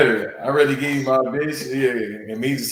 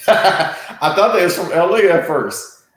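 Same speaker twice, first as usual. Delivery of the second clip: laughing; 6 semitones higher, 3 dB louder, slower than usual. Real, not acted. Laughing at the pirate comparison.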